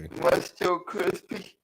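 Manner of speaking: crackly, distorted mic audio; slightly fuzzy bad-connection voice; crispy mic. Real, not acted. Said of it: "a little extra crispy right now".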